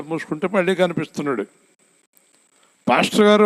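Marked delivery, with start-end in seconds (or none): 2.9-3.4 a higher, louder mock cry for the pastor; retold loud call. Dying man calling out to the pastor, mock shout. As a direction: call out pastor గారు as a half-acted yell. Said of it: "అని గట్టిగా అరిచాడు".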